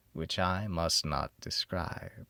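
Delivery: hushed secretive whisper; a hushed confession of something unspeakable. A narrator's reading. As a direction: breathe it low like a forbidden secret.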